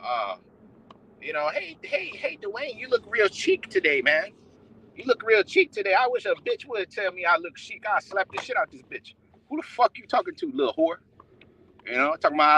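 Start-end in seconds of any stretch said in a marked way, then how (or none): 1.5-5.9 mock TV host. Mocking TV host praising Dwayne. 9.5-11.0 imagined angry retort. Pretend.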